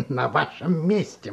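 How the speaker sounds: laughing. Acted. Teacher laughs at young man.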